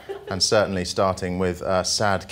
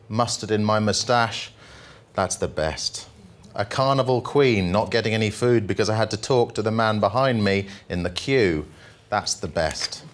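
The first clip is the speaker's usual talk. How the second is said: jolly poem reading; 3 semitones higher than usual. Acted. Comic poet reading the happy poem to the audience, upbeat. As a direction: read it like a cheerful ode.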